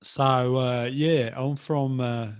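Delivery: loud, halting Cockney attempt; attempted Cockney accent. Shown as a demonstration. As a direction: have a stab at Cockney, then give up. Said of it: "maybe give an example. You, John, you can do the, uh, Cockney, uh, example".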